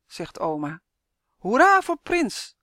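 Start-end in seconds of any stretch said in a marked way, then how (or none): 1.4-2.6 loud, high cheer; boy cheering for the prince; cheering yell. A narrator's reading. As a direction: shout hooray with joy. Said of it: "gilt Tim".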